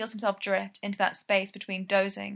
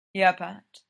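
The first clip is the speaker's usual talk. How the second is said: breathy; 6 dB louder than usual. Acted. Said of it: "he breathes".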